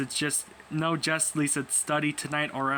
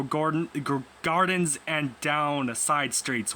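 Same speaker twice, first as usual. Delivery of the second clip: halting mock newsreader delivery; lightly put-on newsreader voice; news bulletin. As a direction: announce it like breaking local news.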